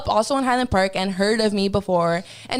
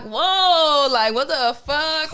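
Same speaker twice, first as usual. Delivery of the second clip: higher-pitched startled protest; acted alarm; 4 semitones higher, much slower than usual. Singer grabbed by rolling ravers, startled and higher. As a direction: recoil from a grabby fan.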